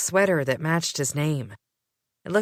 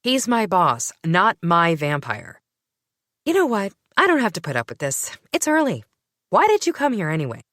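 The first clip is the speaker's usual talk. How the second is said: louder, sharp exasperated retorts; fed up and snapping; irritated; 3 semitones higher, 5 dB louder than usual. Acted. Narrator annoyed at Gray's teasing, irritated.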